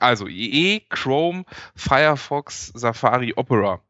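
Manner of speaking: calm, orderly recital of the list; ruhig wiederholt. Real, not acted. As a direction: repeat it calmly, item by item. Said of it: "noch mal ruhig". (ruhig und geordnet aufgezählt)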